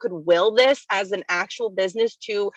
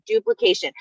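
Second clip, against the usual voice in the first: duplication. jumps much higher on the repeat; emphatic repeat; 12 semitones higher than usual. Shown as a demonstration. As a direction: lift duplication. way up to drive it home. Repeating the key word.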